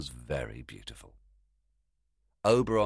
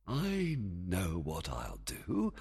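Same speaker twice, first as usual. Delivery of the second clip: sly quiet thought; 6 dB quieter, much slower than usual. Acted. Plotting, soft and slow.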